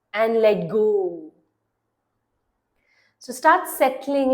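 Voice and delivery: measured meditation voice with long pauses; guided meditation. Acted. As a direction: guide the listener into relaxing, leaving long silences between phrases. (calm guided-meditation delivery)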